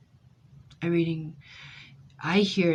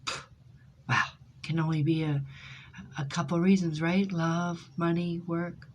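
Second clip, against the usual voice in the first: sarcastic. Retold or imitated. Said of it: "I'm being sarcastic with her".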